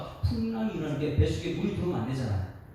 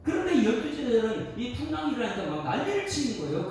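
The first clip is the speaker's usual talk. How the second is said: normal talking voice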